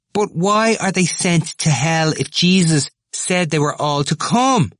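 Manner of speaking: high-pitched, agitated questioning; heated arguing. A narrator's reading. Temple challenging Glynn on church teaching, agitated. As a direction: demand an answer, voice pitched right up.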